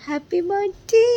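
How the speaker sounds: high bright birthday cheer; excited greeting. Real, not acted. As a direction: sing it out to him.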